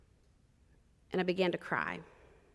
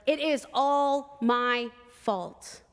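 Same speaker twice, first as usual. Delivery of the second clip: slow, anguished confession; shaking voice; 3 semitones higher, much slower than usual. Retold or imitated. Mother blaming herself for her children's deaths, slow and shaking. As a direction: drag out the guilt, voice shaking. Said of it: "her voice shaking more and more".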